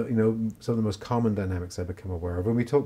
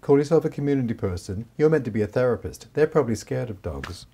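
scolding inner manager; 3 semitones higher than usual. Retold or imitated. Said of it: "this manager part of me".

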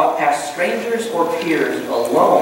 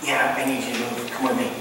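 casual quiet ask; 7 semitones lower, 8 dB quieter than usual. Retold or imitated. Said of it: "he'd be like".

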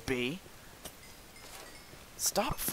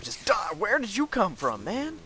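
frustrated yell; 9 semitones higher, 5 dB louder than usual. Real, not acted. Yelling at game mobs.

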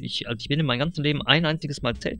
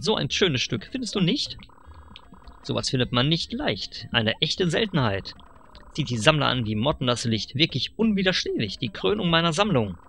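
lightly voiced pushy dealer, rising on the pitch; sly salesman. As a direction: sell it like a slick huckster. (leicht gespielter, schmieriger Händler)

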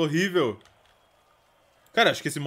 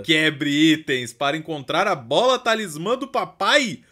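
slow, higher dramatic reading; hint of a cheesy trailer voice; lightly voiced game announcer; 6 semitones higher, 5 dB louder, slower than usual. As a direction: read the tips like a hammed-up announcer.

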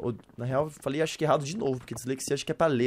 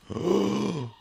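sharp gasp; 4 semitones higher than usual. Real, not acted. Sudden monster appears.

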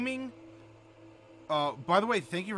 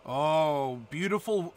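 put-on Welsh accent; 3 dB louder, slower than usual. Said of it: "That is a beautiful Welsh accent".

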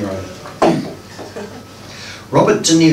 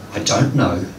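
suddenly serious; 4 semitones lower, 3 dB quieter than usual. Acted. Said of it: "suddenly serious".

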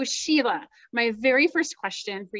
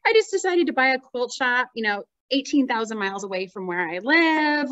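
teasing retelling; 3 semitones higher, 4 dB louder than usual. Retold or imitated. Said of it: "you're just like".

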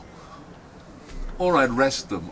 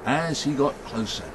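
suspenseful storyteller stretching key words; story narration; 3 semitones higher than usual. A narrator's reading. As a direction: draw the listeners slowly into the mystery. Tells a story to audience.

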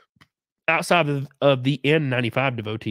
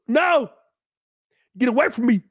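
shrieking "No!" much higher, then backing off; panicked no; 8 semitones higher than usual. Acted. Man horrified at the maid's news, high-pitched panic. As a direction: recoil in high-pitched horror.

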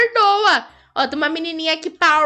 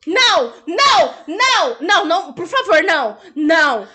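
repete não, mais alto; protesto. Real, not acted. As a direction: implora que pare. Pleading against falsetto. (protesto em tom de brincadeira)

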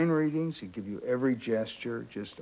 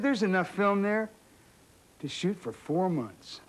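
higher voice, stretched out on four months; imitating the director, insistent; 8 semitones higher than usual. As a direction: repeat it slowly to hammer it home. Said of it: "He said, he said".

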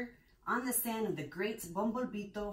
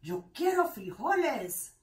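somber declaration; 6 semitones higher, 7 dB louder than usual. Acted. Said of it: "in his most somber voice declared".

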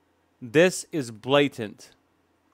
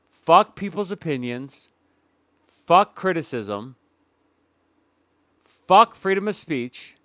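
building mock rant; 4 semitones higher, 5 dB louder than usual. Mocking creator's stance, building.

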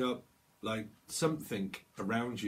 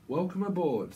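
mock flight attendant; 7 semitones higher, 5 dB louder than usual. Mimicking airline greeting.

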